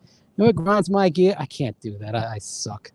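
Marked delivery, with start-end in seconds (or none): 0.0-1.4 higher, attempted New England accent; half-hearted try at a Rhode Island accent. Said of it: "in the, the Rhode Island, New England accent".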